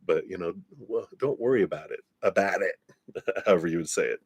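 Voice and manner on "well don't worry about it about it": put-on quick, half-hearted Jersey accent. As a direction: toss off a faint Jersey accent. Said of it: "I can't do a Jersey accent".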